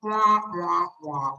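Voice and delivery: lightly imitated wah-wah drone; Charlie Brown teacher. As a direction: toneless muted-trombone teacher babble. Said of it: "if you ever watch Charlie Brown".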